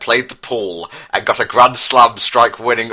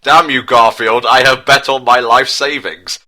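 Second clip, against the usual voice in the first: louder, angry yelled accusation; 3 semitones higher, 5 dB louder than usual. Acted. Bar thug yells at Garfield, louder and angry. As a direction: rage at the cat who took your savings. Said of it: "said Bar Hooligan with anger".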